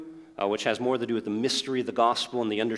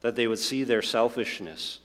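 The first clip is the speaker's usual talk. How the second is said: prayer; 2 semitones lower than usual. Acted. Pastor praying over congregation.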